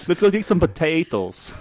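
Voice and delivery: high-pitched put-on Irish; mock Irish accent. Host teasing with an Irish stereotype, in a mock Irish accent.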